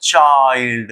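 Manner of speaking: "चाइल्ड" stretched through its diphthong; sounding out. Shown as a demonstration. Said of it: "अब इसको पढ़ेंगे हम चाइल्ड".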